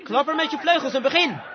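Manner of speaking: rousing command to flap its wings; mother eagle urging. Acted. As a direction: push the little eagle to fly. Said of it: "Ze zei".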